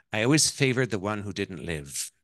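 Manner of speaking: put-on Irish-accented mother. Mother admits favoring her lost child, Irish accent. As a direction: answer as the Irish mother-in-law. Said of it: "that's my Irish accent".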